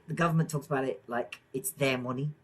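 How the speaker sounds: light Liverpool Scouse accent; a touch of Scouse. Real, not acted. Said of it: "I've spoken in a Scouse accent".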